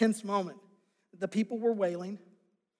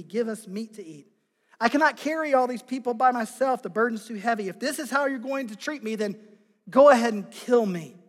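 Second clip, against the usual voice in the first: desperate Moses; 5 dB louder than usual. Acted. Moses' desperate plea to God.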